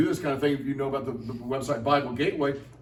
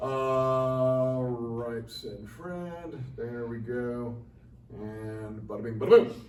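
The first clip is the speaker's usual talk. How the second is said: put-on Jersey accent; 5 semitones lower, much slower than usual. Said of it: "the Jersey accent".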